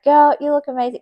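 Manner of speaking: high, loud gushing praise; excited compliment. Retold or imitated. To the cosplaying nurse, high excited praise. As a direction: gush over her look.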